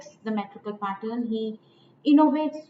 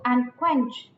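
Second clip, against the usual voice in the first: slow iamb, "and" light, "quench" stressed. Shown as a demonstration. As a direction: draw out "quench" after a light "and". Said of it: "and is unstressed".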